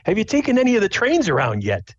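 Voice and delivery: high-pitched dad voice, chatty question; inquiring dad. Acted. Dad asks son about the trains, inquiring dad voice. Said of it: "And he's like".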